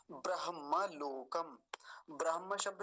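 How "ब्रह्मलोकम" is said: ब्रह्मलोकम slowly, ending in kam; closing m. Shown as a demonstration. Teacher confirming the final letter, closing m. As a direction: end ब्रह्मलोकम on a true m. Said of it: "ये मकार ही आएगा".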